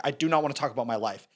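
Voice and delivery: imitated matter-of-fact refusal. Cop refusing the driver's questions, matter-of-fact. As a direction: shut the subject down evenly, as in a retelling. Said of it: "matter of fact".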